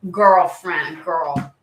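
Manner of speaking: put-on lightly Valley Girl-accented girlfriend; a hint of sassy Valley Girl. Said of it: "Did it sound a little Valley Girl?".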